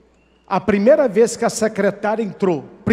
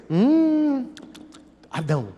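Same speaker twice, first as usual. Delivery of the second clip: mock seductive Eve; 5 semitones higher, 3 dB quieter, slower than usual. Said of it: "Eva, a mesma coisa".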